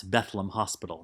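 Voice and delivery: "Bethlehem" squeezed to BETH-lem; two-syllable Bethlem. Shown as a demonstration. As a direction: say "Bethlehem" as BETH-lum, dropping the middle syllable. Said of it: "how people would pronounce".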